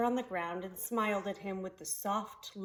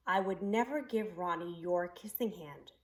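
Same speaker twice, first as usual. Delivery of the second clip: gentle; 2 semitones lower than usual. Acted. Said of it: "she assured him gently".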